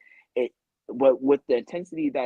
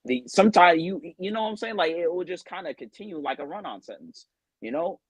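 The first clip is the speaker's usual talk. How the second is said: run-on talk; 5 semitones higher than usual. Shown as a demonstration. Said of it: "I like to talk like this".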